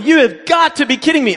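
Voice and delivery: high disbelieving yell; retold yell. In the outhouse after the lens falls in, high exasperated yell. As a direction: cry out in exasperation. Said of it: "when I yelled".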